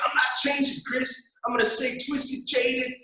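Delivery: lampoon a jaded listener; high whiny mock lament; whiny cynic. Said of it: "you're like".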